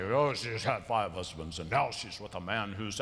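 a light sneer of moral judgment; judgmental tone. Retold or imitated. Preacher mocking how judgmental readers voice the woman, mild scorn. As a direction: voice the judgmental reading, mildly scornful. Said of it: "they take the tone of voice there as like".

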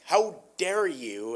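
slow, mildly indignant retort. Retold or imitated. Prince answers the mocking troll, mildly indignant. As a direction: retell a prince's slow, affronted reply. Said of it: "Prince Casimir responds indignantly".

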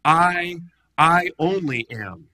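solemn declaration of godhood; proclaiming. Shown as a demonstration. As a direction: proclaim it like a divine name. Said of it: "It's a statement of godness".

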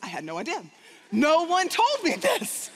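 half-laughing disbelief; a nervous giggle as she realises the danger. Retold or imitated. Laughing nervous reply on plane.

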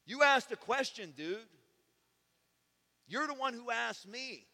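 high, loud frustrated comeback; exasperated retort. Retold or imitated. Preacher retelling his retort to the neighbor, loud and high. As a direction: insist he asked, raising the voice. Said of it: "I'm like".

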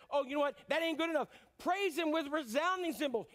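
a touch of a zealous God; excited God voice. Pretend. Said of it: "And he says".

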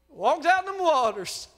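"Walked out in them waters." said loud and high. Shown as a demonstration. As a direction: repeat "Walked out in them waters." with a preacher's shout.

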